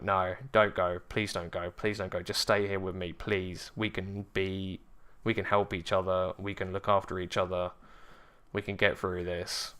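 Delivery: soft, subdued plea; understated retold begging; quiet pleading. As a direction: plead under your breath, holding it in. Retold unspoken plea to departing sister.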